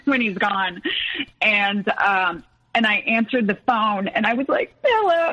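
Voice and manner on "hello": retold sob, high-pitched hello; bawling hello. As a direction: choke out hello mid-sob, imitating. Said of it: "just bawling".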